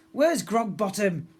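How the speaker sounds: through gritted teeth. A narrator's reading. Pirate girl demanding the prince, slow through gritted teeth. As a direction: grind it out at the prince. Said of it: "she said through gritted teeth".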